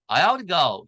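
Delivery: American accent, "have to" run together. Shown as a demonstration. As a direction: soften the t in an American way. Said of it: "미국은 그냥".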